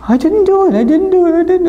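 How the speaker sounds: put-on high, pleading child's voice repeating the denial; whiny kid denial. Child stubbornly denying.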